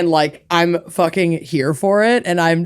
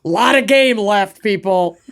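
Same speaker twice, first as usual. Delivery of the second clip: confident sports fan. Shown as a demonstration. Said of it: "my favorite thing to say".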